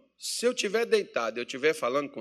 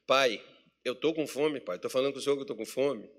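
filho insistindo; 3 semitones lower, 5 dB quieter than usual. Retold or imitated. Son repeats plea, acted lower.

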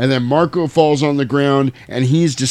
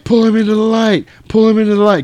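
mock shout; 9 semitones higher, 4 dB louder, faster than usual. Hunters shout in the scene.

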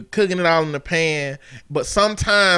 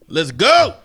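mild mock yell, louder on GO; imitated yell; 5 dB louder than usual. Listener echoing the yell they heard about, mild mock yell. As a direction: call it out with a punched, louder GO. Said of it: "They was yelling".

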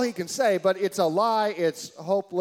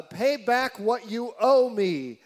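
demanding; 4 semitones higher, 3 dB louder, slower than usual. Acted. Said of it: "he demanded".

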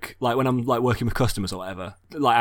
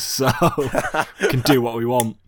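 laughing; 2 semitones higher, 4 dB louder, slower than usual. Real, not acted. Joking about no listeners.

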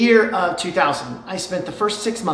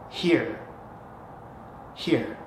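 gentle offering; 5 semitones lower, 8 dB quieter than usual. Retold or imitated. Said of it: "you say".

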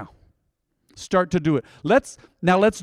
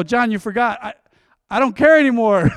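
louder teasing fed-up; mock attitude; 5 semitones higher, 5 dB louder than usual. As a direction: tease him, sassy and loud. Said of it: "I go".

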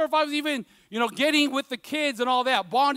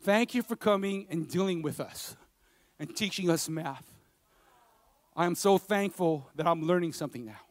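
put-on soft, hushed reading of a girl's note; reading the letter softly; 7 semitones lower, 8 dB quieter than usual. Pastor reads his student's thank-you letter, hushed and soft. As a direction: read it gently, as if touched. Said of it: "She said".

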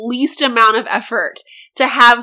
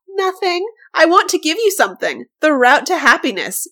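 higher, lightly voiced ghostling; higher-pitched storybook enchantress; alluring ghostling; 5 semitones higher than usual. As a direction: read it as a tempting creature offering a gift. Voices the smiling ghostling in reading.

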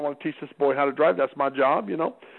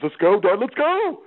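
urgent hurry; 5 semitones higher, 4 dB louder, slower than usual. Retold or imitated. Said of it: "he goes".

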